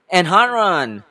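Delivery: high, loud interjection; accusing exclamation. Acted. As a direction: pounce on it like a cross-examiner. Lawyer springs an accusation.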